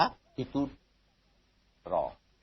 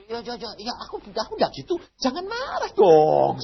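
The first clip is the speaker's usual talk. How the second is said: timid pleading; 10 semitones higher than usual. Retold or imitated. Pleading with angry God.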